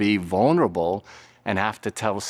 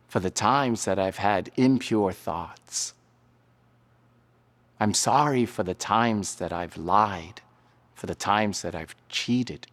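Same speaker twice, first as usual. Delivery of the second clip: hushed confession whisper. Shown as a demonstration. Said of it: "it might sound something like this".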